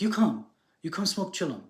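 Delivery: lightly put-on voice of a wise sage inviting; inviting Indian sage. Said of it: "the guy waves to him".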